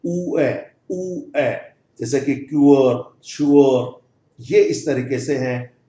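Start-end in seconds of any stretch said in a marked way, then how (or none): 0.1-1.6 ऊ ए sounded apart, slightly higher; vowel demo. Shown as a demonstration. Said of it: "ऊ की मात्रा और ए का मिला जुला रूप". 2.4-4.0 क्यूअर with oo gliding into a short a; diphthong demo. Shown as a demonstration. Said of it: "ऊ की मात्रा और ए का मिला जुला रूप".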